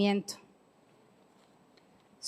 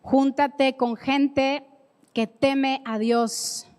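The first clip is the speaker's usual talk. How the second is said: slow emphasis; slower than usual. Shown as a demonstration. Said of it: "slow emphatic teaching".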